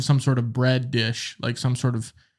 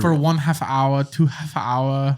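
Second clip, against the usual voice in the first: put-on German-ish accent; slower than usual. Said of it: "That's, like, German".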